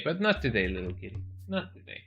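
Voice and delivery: soft, fading to a whisper, telling the kitty no; gentle hushed no. Real, not acted. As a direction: tenderly whisper not today to the cat. Telling the cat no.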